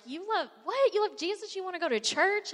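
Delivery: high mocking "you love Jesus?"; mock disbelief. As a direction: imitate friends who can't believe what they hear. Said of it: "they're like".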